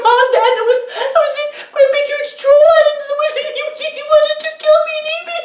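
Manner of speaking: put-on very high, fast frantic boy; panting crying son. A narrator's reading. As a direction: sob and pant in panic. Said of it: "He was panting, crying".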